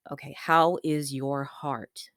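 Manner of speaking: P=A; slow gentle question. Retold or imitated. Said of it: "And he's like".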